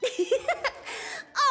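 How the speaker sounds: short scheming chuckle; laugh. Acted. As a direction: chuckle to yourself before speaking. Character laughs at their scheme.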